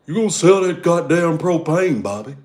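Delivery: father threatening his son, hammed-up yell; mock angry dad. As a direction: yell at the boy like a furious dad. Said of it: "King of the Hill".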